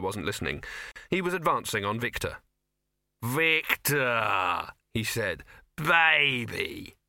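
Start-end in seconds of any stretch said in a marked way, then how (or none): 3.2-7.0 gushing. A narrator's reading. Dibbler gushes at Victor.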